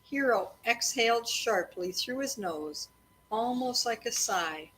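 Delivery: steady read-aloud storytelling voice; story narration. A narrator's reading. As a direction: read it evenly to the kids at bedtime. Parent reading a chapter aloud.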